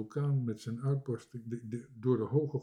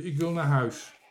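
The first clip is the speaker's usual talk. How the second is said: insistent wail; 2 semitones higher, 5 dB louder than usual. A narrator's reading. Timid character demands going home.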